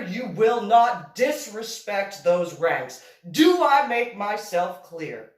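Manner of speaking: stern lecture. Retold or imitated. Lecturing the boy about the uniform.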